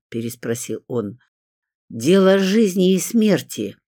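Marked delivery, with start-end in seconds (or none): 1.9-3.8 high, drawn-out, dramatic; urgent exclamation. A narrator's reading. Caller convincing the pianist it is serious, exclaiming. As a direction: declare it slowly with full gravity. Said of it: "воскликнула я".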